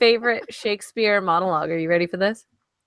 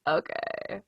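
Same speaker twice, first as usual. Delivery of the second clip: vocal fry; 5 semitones lower, 13 dB quieter than usual. Pretend. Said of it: "you have to remain in vocal fry the whole time".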